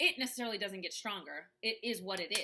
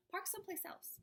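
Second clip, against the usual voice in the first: high and soft; small inner voice; 11 semitones higher, 8 dB quieter than usual. Retold or imitated. Inner voice quietly warning her in college, high and soft. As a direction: say it like a gentle nudge. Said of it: "that really small voice".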